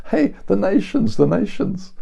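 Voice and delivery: excited mock exclamation over the nations; excited, grand. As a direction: sell the big global prize. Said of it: "You think".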